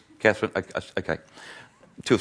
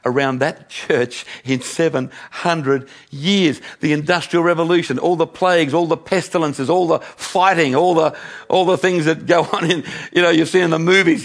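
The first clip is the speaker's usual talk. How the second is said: higher-pitched, piling up the list; mind racing; 5 semitones higher than usual. Retold or imitated. Preacher relives his mind racing in the cathedral, marvelling. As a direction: marvel aloud as the examples mount. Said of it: "my mind started to race".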